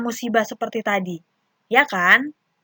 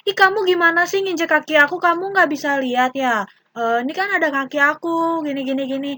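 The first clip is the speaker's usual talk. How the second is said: lightly acted grumpy scolding of a friend; mock angry complaint; 2 semitones higher than usual. Shown as a demonstration. Tina wrongly scolds Lala for stepping on her foot, mock annoyed. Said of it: "Oh, contohnya gini".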